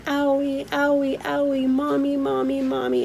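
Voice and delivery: put-on high, whimpering little boy calling for mommy; crying toddler. Mom imitating a toddler crying for his mommy, high and whimpering. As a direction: imitate a hurting three-year-old. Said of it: "he just kept saying".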